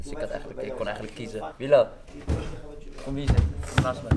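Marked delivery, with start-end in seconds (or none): 1.6-4.1 sharp, loud call of a name. Real, not acted. Man calls Bilal over to sit, calling out.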